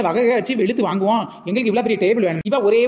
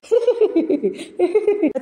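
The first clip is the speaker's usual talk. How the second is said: high, long giggle; mocking cackle; 9 semitones higher than usual. Mocking the weeping sister-in-law, high cackling laugh.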